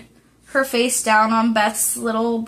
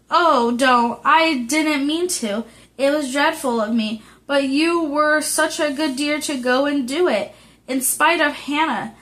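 a touch out of breath, flustered; breathless; 3 semitones higher than usual. Acted. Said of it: "saying breathlessly".

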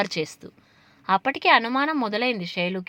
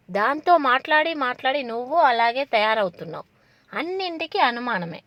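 put-on annoyance, somewhat higher; fake irritation; 4 semitones higher than usual. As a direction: pretend to be fed up with mom. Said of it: "చిరాకు నటిస్తూ". (చిరాకు నటిస్తూ, కొంచెం ఎక్కువ స్వరంతో)

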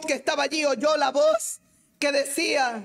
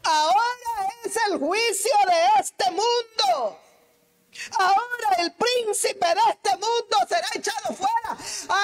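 higher, slow, ringing pulpit proclamation of "Ahora es el juicio"; proclaimed; 7 semitones higher, 3 dB louder than usual. Shown as a demonstration. Preacher rereading verse thirty-one to the church, proclaimed high and slow. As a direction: lift it up as a judgement from on high. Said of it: "El treinta y uno".

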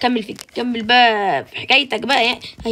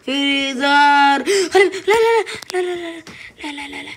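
alarmed; 4 semitones higher, 4 dB louder than usual. Real, not acted. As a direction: panic at the laser. Laser trap, panic. (ذعر وصراخ)

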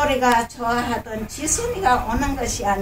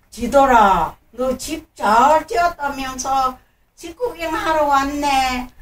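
grandma voice. Acted. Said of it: "코끼리 할머니가 오는 거야".

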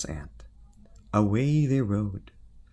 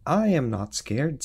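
brave knight voice; 5 semitones higher, 4 dB louder than usual. Acted. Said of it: "said the tiny knight".

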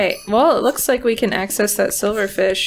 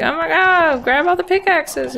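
mock panic; 8 semitones higher than usual. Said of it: "They're gonna be like".

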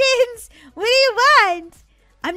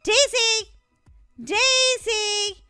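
raised, sing-out call; 4 semitones higher, much slower than usual. Acted. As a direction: call for your sister, drawing out the name. Calling for her sister.

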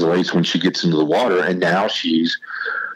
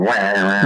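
projector whirring. Retold or imitated. Telling about film study, he mimics the projector's whirring. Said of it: "the projector's going".

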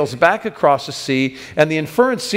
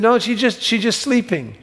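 higher, airy reassurance; she's just sleeping, said higher, easy and soothing; light reassurance; 8 semitones higher than usual. Retold or imitated. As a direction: brush off the fear lightly. Jesus quoted, light reassurance.

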